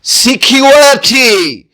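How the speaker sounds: سیکیورٹی drawn out slowly; teacher modelling سیکیورٹی; slow careful pronunciation. Shown as a demonstration. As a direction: model سیکیورٹی one sound at a time. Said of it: "اس کا تلفظ".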